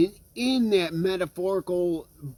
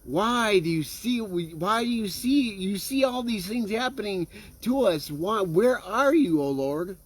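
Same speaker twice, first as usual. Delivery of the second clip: mild acted lament, pitched up; crying out to God; 4 semitones higher than usual. People questioning God about their troubles, mildly crying out. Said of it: "we'll cry out and say".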